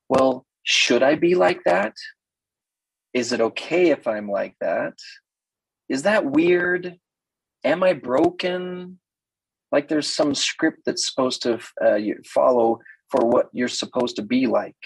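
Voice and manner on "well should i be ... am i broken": anxious questioning woman. Retold or imitated. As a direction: sound timidly unsure of yourself. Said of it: "weirdest things women say".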